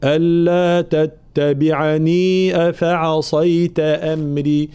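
تتبعني with the extra ya sounded, slow; connected form with ya. Shown as a demonstration. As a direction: join on and say the ي of تتبعني. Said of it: "إذا وصلناها". (الوصل بإثبات ياء تتبعني)

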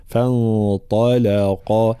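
فانطلقا very slow: light ف, hidden ن, heavy ط, light ل, heavy ق; tajwid demo. Shown as a demonstration. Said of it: "هكذا". (مرقق مفخم في فانطلقا)

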